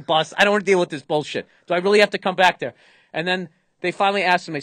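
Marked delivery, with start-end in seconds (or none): 1.7-2.7 louder and faster, fed up; annoyed pilot grumbling; exasperated captain. Retold or imitated. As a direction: whine it like a captain who can't be bothered. Captain annoyed at being called back.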